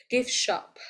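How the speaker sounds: GIFT stressed, shop lighter; first syllable stressed. Shown as a demonstration. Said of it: "where does the stress fall on".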